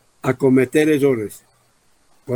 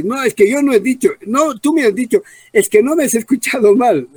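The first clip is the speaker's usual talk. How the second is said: mock home quarrel; 5 semitones higher than usual.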